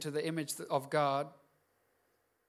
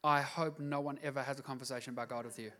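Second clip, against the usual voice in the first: inner thought; 4 semitones lower, 7 dB quieter than usual. Retold or imitated. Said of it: "I meet Christians where I think".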